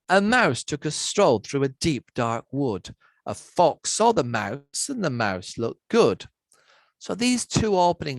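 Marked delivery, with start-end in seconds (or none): 0.1-6.2 lilting read-aloud with a bouncy rhythm; story reading. Acted. Lecturer reads the Gruffalo opening aloud, rhythmic storytelling. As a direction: read it like a bedtime story, leaning on the beat.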